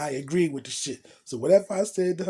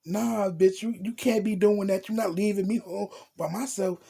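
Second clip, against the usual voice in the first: higher-pitched imitation of her objecting; mock indignant protest; 5 semitones higher than usual. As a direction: act out her refusing to be left. Girl protests being left, retold.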